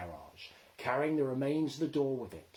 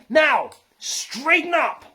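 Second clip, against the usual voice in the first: shout; 15 dB louder, slower than usual. A narrator's reading. Steering the runaway lorry.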